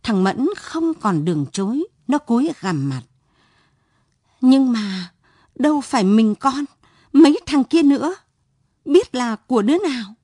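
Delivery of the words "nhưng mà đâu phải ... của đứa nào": higher and louder, pleading excuses; a cornered son blurting out blame; frantic self-defence; desperate protest. Acted.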